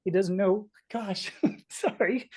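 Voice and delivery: real emotion interrupting the story, with a small laugh; halting, apologetic, a little overcome; getting emotional. Real, not acted. Storyteller apologising while telling of the cat's doubt, emotional. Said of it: "I'm gonna get a little emotional".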